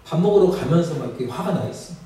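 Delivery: usual speaking voice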